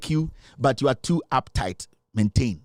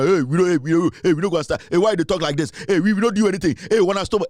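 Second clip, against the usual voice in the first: louder, agitated mock protest; mock protesting fans; 4 dB louder, faster than usual. Pundit mimicking uptight fans protesting, loud and agitated. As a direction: ham up the uptight fans' complaints.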